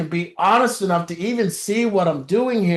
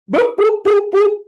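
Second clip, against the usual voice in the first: high, mock robot boops; imitating a robot going through the motions; robot beeps; 12 semitones higher than usual. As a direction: beep like a mindless robot. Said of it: "being a robot".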